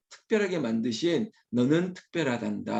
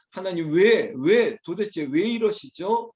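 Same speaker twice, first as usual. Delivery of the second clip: higher, insistent protest to God; talking back; 3 semitones higher, 4 dB louder, slower than usual. Acted. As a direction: press each "why" as a challenge. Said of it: "그렇게 대꾸할 때가 있습니다".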